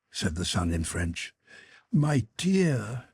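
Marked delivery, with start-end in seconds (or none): 1.9-3.1 pleading, pitched up on dear; imploring. Acted. Mother pleading with her son, imploring. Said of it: "exclaimed his mother imploringly".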